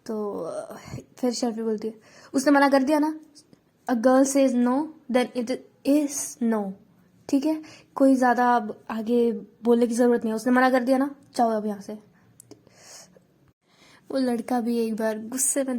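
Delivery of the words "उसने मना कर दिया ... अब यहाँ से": stern telling-off. Acted. Sharvari telling the boy off.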